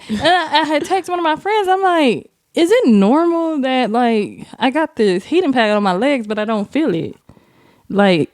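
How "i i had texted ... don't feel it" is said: raised, anxious pitch; high worried voice. Retold or imitated. Worried retold text.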